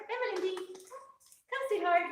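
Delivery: high, sweet coaxing call to the dog; pet talk. Real, not acted. Owner calling her recovered dog Valentin over, high sweet pet talk.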